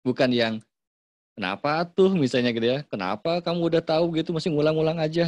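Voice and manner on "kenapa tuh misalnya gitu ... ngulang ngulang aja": mock questioning, raised and pressing; challenging. Shown as a demonstration. Parent questioning a child who repeats a known mistake, challenging. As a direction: demonstrate the wrong, challenging way to ask. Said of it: "Nggak gitu ya".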